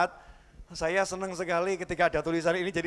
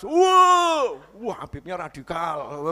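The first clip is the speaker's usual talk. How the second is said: mock shocked viewer; 4 dB louder, much slower than usual.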